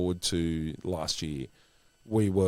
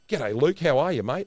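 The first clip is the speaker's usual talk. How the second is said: higher, louder mock-matey hello; imitated hearty greeting; 7 semitones higher, 4 dB louder than usual. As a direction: greet an old mate heartily. Retold hearty greeting from Tom.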